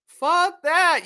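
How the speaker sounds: high, loud "Fuck that" punched out; loud dismissal. Real, not acted. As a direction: shout it down. Repeats the dismissal loudly.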